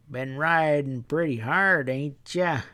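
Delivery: lightly voiced sly country stableman; a hint of a sly drawling stableman sizing them up.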